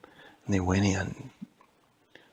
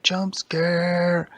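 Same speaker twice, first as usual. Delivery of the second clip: higher, bursting out to spook; playful jump scare shout; 8 semitones higher than usual. Acted. Elvie tries to spook the Siege, excited shout. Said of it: "And Elvie was like".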